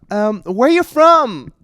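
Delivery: loud, high, drawn-out question; bar chat-up voice. Retold or imitated. Bar small talk about his accent, high put-on voice.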